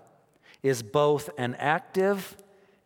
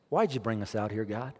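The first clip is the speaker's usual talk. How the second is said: mock whining; 5 semitones lower, 4 dB quieter than usual. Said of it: "pity parties".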